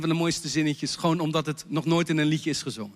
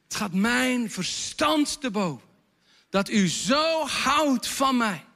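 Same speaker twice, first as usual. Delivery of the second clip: drawn out and slowed, rising at the end; slow refrain line; 4 semitones higher, slower than usual. Shown as a demonstration. Songwriter quoting the chorus to the church, slowly drawn out. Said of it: "dan komen we bij het refrein".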